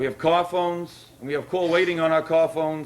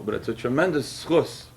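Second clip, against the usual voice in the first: lower, choked-up voice; moved, emotional; 4 semitones lower than usual. Real, not acted. Rabbi at the Torah dedication, overcome with emotion, lower and choked. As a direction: let the emotion catch in your throat. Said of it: "Excuse me if I get a little emotional".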